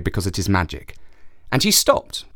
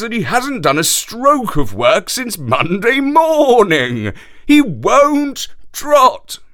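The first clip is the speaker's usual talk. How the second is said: high, louder horse telling tales; high complaining horse; 6 semitones higher, 4 dB louder than usual. Acted. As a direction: complain about the camel in a high voice. Horse complains about the camel.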